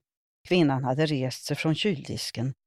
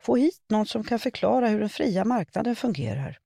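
demanding shout; 7 semitones higher than usual. A narrator's reading. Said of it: "vars röst var gäll och krävande".

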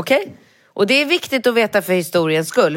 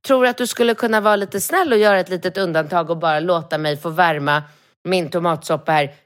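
usual speaking voice

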